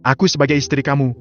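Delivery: lightly acted husband and wife quarrel; marital quarrel. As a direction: push back and accuse. Couple argue.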